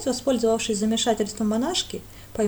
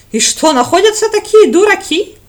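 incredulous; 10 semitones higher, 15 dB louder than usual. Acted. Highlander incredulous.

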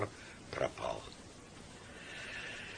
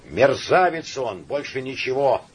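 angry; 3 semitones higher, 3 dB louder than usual. Acted. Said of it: "сам себе сказал Турбин".

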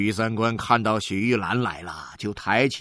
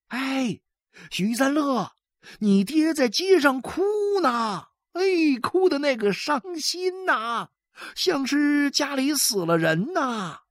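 higher, busy gossip voice calling out; gossiping neighbour. A narrator's reading. Neighbour tells San Le his father cries, high gossip. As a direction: spread the news with relish. Bystander calls out news.

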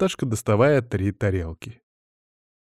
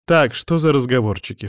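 mock indignant; 3 semitones higher than usual. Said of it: "шутливо возмущается Наташка".

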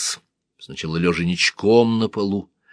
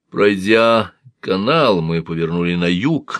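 lightly voiced man; 4 dB louder than usual. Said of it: "начал он".

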